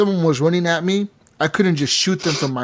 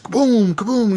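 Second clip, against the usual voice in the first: booming mock rifle shots, pitched up; imitated gunshots; 8 semitones higher than usual. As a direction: mimic each shot as a drawn-out boom.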